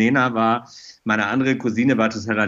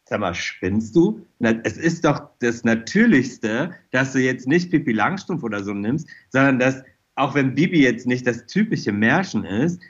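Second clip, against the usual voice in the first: scolding himself. Retold or imitated. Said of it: "hab gedacht".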